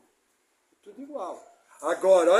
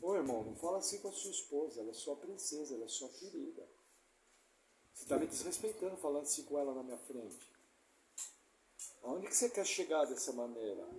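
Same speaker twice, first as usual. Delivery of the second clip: soft, lower, patient correction; firm but gentle rebuke; 5 semitones lower, 10 dB quieter than usual. Retold or imitated. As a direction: correct him quietly and calmly. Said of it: "Não precisa ser grosseiro". (pastor corrigindo o irmão com voz baixa e firme)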